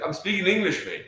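a mock Scottish friend insisting he speaks English; Scottish accent. Hint of a Scottish accent, friend texting. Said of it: "he's like".

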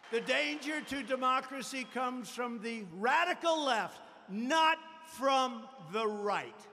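rousing campaign speech; rally the crowd to take back the country. Acted. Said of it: "rally speech".

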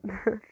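short, soft little laugh; small chuckle before replying. A narrator's reading. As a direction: let out a brief laugh. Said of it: "I laughed".

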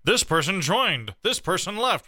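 high, slow sing-song mockery; exasperated, drawn-out high mimicry; mocking read-out. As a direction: mimic tedious chat notifications in a high voice. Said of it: "I am so sick of".

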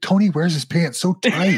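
giggling through the line; laughing while quoting. Retold or imitated. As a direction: quote broken by laughter.

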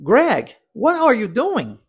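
ordinary delivery

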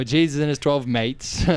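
put-on playful Australian accent; mock Australian accent. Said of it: "also into Australian English".

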